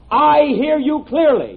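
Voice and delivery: dictating the test sentence. Shown as a demonstration. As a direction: spell out each word slowly. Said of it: "Have you got that?".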